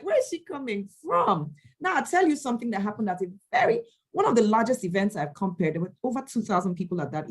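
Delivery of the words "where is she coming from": admiring gasp. Retold or imitated.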